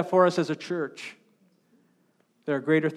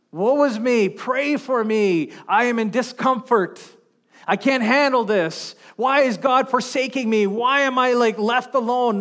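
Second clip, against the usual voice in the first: whiny complainer; 5 semitones higher than usual. Retold or imitated. Mocking a complaining believer.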